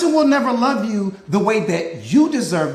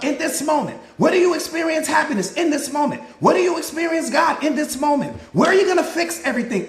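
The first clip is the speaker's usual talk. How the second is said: rising, insistent preacher questions, quick answers; preaching; 3 semitones higher than usual. Acted. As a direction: preach it, ask and answer yourself. Call and response preaching.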